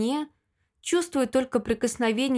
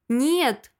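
mild bark. Acted. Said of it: "рявкает".

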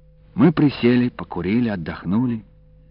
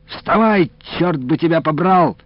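much higher, loud angry yell; angry shout; 9 semitones higher, 5 dB louder than usual. A narrator's reading. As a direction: curse at the cow in a temper. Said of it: "рассердился Илико".

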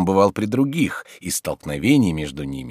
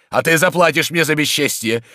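raised, loud warning short of a scream; angry threat; 9 semitones higher, 5 dB louder than usual. Acted. Tarantyev turns on Oblomov while leaving, angry threat. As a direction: threaten him firmly on the way out.

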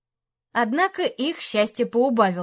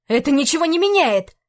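higher, louder defiant cry; shouted; 4 semitones higher, 5 dB louder than usual. Acted. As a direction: yell it back at the dragon. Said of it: "выкрикнул Антей". (выкрикнуть с вызовом)

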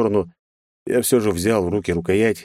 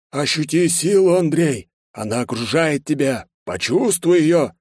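grandiose; 8 semitones higher than usual. A narrator's reading. Лёха adapts the quote pompously for Андрей, grandiose. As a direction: declaim it with mock pathos. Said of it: "И он пафосно добавил".

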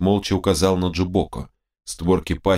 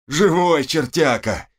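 laughing; 7 semitones higher, slower than usual. Acted. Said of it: "расхохотался он".

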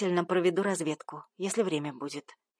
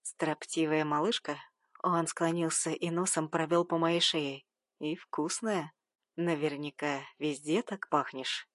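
low, softer male murmur; lightly voiced seducer, close to her ear; a hint of a purring stranger; seductive murmur; 4 semitones lower, 4 dB quieter than usual.

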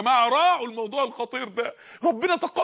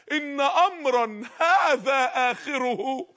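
slow solemn quote; much slower than usual. Retold or imitated. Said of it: "قال".

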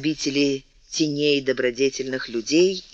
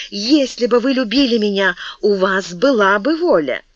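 reproach; 5 semitones higher, 4 dB louder than usual. Acted. Мария упрекает короля.

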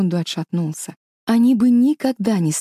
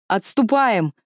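commanding order; 4 semitones higher, slower than usual. Acted. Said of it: "приказал Дагнер".

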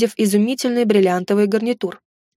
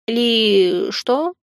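puzzled question. Acted. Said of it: "растерянно уточнила Фейри".

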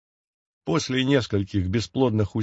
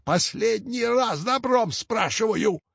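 put-on high, slow old-witch warning; menacing hag; 10 semitones higher, slower than usual. A narrator's reading. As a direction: threaten like a wicked old crone. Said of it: "злобно зашипела она". (угрожающая старуха-ведьма)

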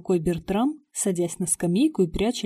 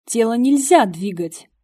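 higher, loud blurted warning with НЕЛЬЗЯ hit hard; blurting out; 4 semitones higher, 7 dB louder than usual. A narrator's reading. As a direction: blurt it out fast, leaning on НЕЛЬЗЯ. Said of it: "выпалила я".

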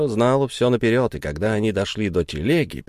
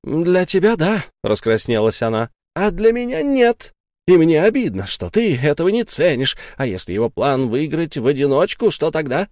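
hurt angry outcry; 6 semitones higher than usual. Acted. Sara furious, flushed.

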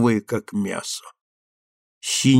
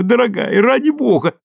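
urgent plea; 12 semitones higher, 3 dB louder than usual. A narrator's reading. Husband pleading, rising.

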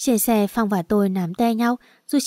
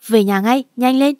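angry order; 3 semitones higher, 4 dB louder than usual. Acted. Mother orders daughter home.

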